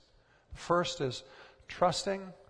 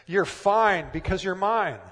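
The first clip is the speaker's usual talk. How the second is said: louder, punchier preacher delivery of the line; 2 semitones higher, 9 dB louder than usual. Shown as a demonstration. Pastor redoing a quote in a bigger preacher voice, louder. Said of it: "You can say that line better".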